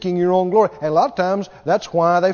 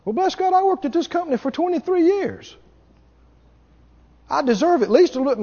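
high indignant whine; entitled worker; 8 semitones higher, faster than usual. Retold or imitated. Long-time employee demanding what she deserves, high indignant whine. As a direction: huff it like an offended employee.

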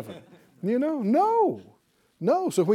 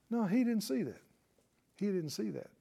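soft repeat; 3 semitones higher, 8 dB quieter, faster than usual. Real, not acted. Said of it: "repeated softer".

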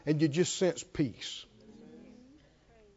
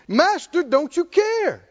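pleading disciples; 6 semitones higher than usual. Acted. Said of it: "what are they asking?".

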